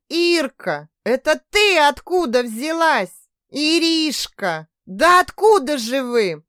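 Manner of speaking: high, loud, slow amazed exclaim; astonished. Acted. Mother amazed to find her daughter home, astonished cry. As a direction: gasp it out in disbelief.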